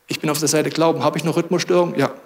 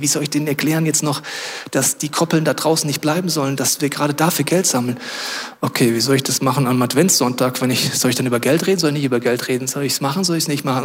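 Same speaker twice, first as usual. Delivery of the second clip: racing worried thoughts; 2 semitones lower than usual. Acted. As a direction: run through nagging questions without settling, mildly fretful. Acting out worried thoughts before sleep. (leicht gehetztes, grüblerisches Gedankenkreisen)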